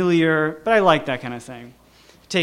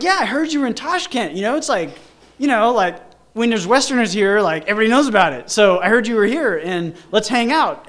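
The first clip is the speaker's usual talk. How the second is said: much higher, gushing hello; excited friend's voice; 5 semitones higher, 4 dB louder than usual. Retold or imitated. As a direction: greet him like you planned it. Mel explains, chatty.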